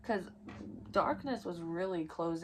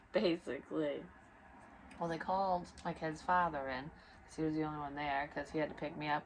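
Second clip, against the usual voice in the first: ordinary talk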